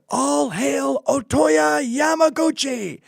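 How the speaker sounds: slow, lofty battle cry; solemn samurai proclamation. Retold or imitated. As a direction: proclaim it like a dying samurai's last words. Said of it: "And I said".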